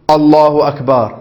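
slow الله أكبر with a falling end, shown as wrong; wrong takbir. Shown as a demonstration. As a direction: drag out الله أكبر as the error. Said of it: "لا". (تكبير بطيء خاطئ)

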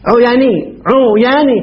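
"عياني" slowly as u-yaa-nii; slow demonstration. Shown as a demonstration. Teacher repeats the form for students, "عياني" slow with long aa. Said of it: "ويجوز أن تقول عياني".

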